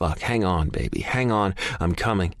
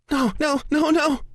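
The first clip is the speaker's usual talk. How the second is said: much higher frightened no's; fearful disbelief. A narrator's reading. Terrified woman on the phone, frightened repeated no. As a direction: plead against what she sees. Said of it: "fear, disbelief, and shock".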